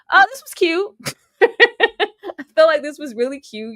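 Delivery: high, slow words through laughter; laughing hard. Real, not acted. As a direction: crack up while trying to talk. Cracking up over a cute moment.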